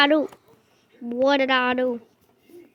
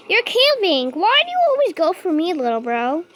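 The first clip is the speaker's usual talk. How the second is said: exasperated complaint; 2 semitones higher, 6 dB louder than usual. Real, not acted. Player complaining the monster keeps targeting him, loud exasperation. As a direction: whine loudly at the camper.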